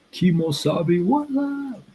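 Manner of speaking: squeaky high hello; playful cartoon-high what up; falsetto greeting. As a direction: jump up into a silly falsetto for the viewer. Greeting chat viewer in falsetto.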